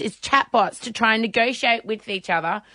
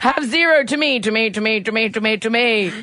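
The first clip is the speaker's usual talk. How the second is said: robot voice. Pretend. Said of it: "you have to do a robot voice".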